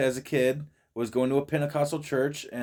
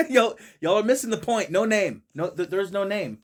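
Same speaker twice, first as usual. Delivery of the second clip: excited insistence; 6 semitones higher than usual. Real, not acted. Arguing against the clip.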